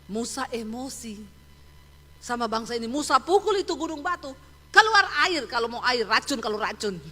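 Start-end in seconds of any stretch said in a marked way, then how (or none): 4.7-7.0 Moses losing his temper. Retold or imitated. Angry Moses striking the rock.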